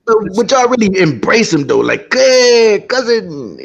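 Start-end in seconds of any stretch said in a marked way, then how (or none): 2.1-3.6 high, loud call to a long-lost cousin; mock hearty greeting. Host acting out embracing an Irish-American cousin, mock hearty greeting. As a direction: call out an exaggerated welcome, starting high and loud.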